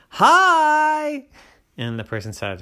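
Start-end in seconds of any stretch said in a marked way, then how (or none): 0.1-1.3 very high, loud hello; high sing-song hello; chirpy sister. A narrator's reading. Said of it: "She said".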